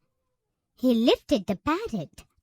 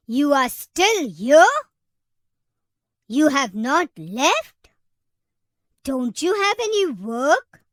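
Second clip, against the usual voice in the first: loud exasperated shout; screaming elephant; 6 dB louder than usual. A narrator's reading. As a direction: yell it, fed up with the pest. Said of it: "The elephant screamed and said".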